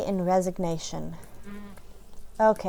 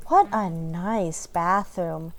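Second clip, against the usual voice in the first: slow, sarcastic fake compliment; fake polite; 3 semitones lower, much slower than usual. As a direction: drag out a forced polite lie.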